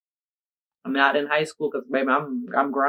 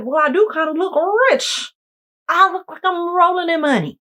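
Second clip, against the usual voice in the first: much higher, louder bougie brag; mock rich bragging; 13 semitones higher, 4 dB louder than usual. Bragging to herself about looking rich, high mock voice. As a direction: flaunt like you're rich. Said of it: "And I was like".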